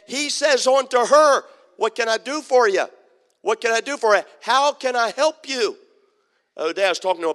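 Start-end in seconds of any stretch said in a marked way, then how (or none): 1.8-5.8 loud, eager offer of help; Elisha calling out. Retold or imitated. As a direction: call it out to her urgently. Elisha calls to crying woman.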